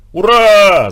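loud, high cheer of hurray; shout of joy. A narrator's reading. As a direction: cheer from inside the hut. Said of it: "закричал из шалаша Лёшка".

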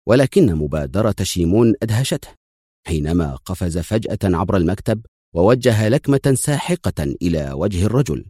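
usual speaking voice

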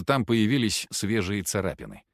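ordinary delivery

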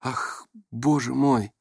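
slow, hushed dismay; shocked exclamation. A narrator's reading. Onlookers reacting to the slap, shocked exclamation. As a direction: draw it out, aghast. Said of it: "Раздались восклицания со всех сторон".

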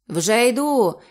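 shout. Acted. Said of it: "крикнув Ейб".

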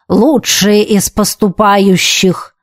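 slow grand proclamation; pompous. Acted. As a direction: announce it with self-important pomp. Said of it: "с пафосом произнёс он".

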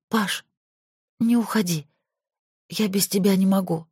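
high, drowsy plea; sleepy. Acted. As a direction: murmur it half asleep. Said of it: "сонно сказала Зоя".

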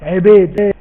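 عبيد with the عين between fatha and kasra; deliberate rural عبيد; village vowel. Shown as a demonstration. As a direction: say عبيد like rural folk call Uncle Obeid. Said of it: "اسمعوا".

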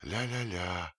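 a hint of an old crone humming to herself; old woman muttering. A narrator's reading. Old nurse alone in the tomb, muttering sing-song. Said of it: "бормотал голос старой женщины".

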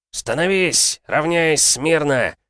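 barked parade-ground commands, high and loud; shouting drill sergeant. Acted. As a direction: bellow the formation orders.

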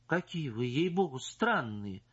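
getting offended. Acted. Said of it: "начиная обижаться".

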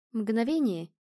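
ordinary delivery

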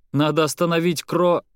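breaking off mid word in alarm; cut off mid word. Acted. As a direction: stop dead on the half word. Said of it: "Петр замолчал на полуслове".

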